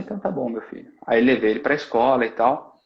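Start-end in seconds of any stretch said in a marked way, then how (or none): 0.0-0.9 soft, quiet fatherly okay; gentle reassurance. Retold or imitated. Father reassuring his calmed son, softly. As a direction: settle him down gently, much softer.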